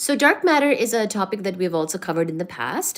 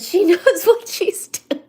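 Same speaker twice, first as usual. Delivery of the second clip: slow whisper broken by a laugh; 9 semitones higher, 6 dB louder, slower than usual. Real, not acted. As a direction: giggle it under your breath. Amused aside about cat.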